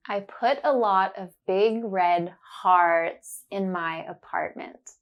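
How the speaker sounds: slow careful sentence, leaning on the ah words; slow, focused on the sound. Shown as a demonstration. Teacher slowly modelling the sentence for learners. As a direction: say it slowly, stressing hearts and apartment. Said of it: "I will say it slowly and focus on the sound".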